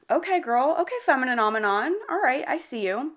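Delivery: hyped cheering. Real, not acted. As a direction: cheer her on like a best friend. Cheering the heroine's comeback.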